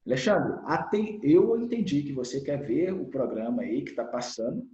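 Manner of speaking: put-on firm but measured demo to a child; linguagem mais rígida. Shown as a demonstration. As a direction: calmly lay down the rules. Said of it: "a linguagem mais rígida é assim". (firmeza contida, demonstração de linguagem rígida)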